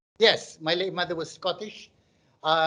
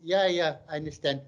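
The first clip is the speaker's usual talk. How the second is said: lightly voiced, non-confrontational agreement; a hint of timid footballer; meek Malaysian players. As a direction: agree meekly just to avoid confrontation. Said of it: "We don't like confrontation".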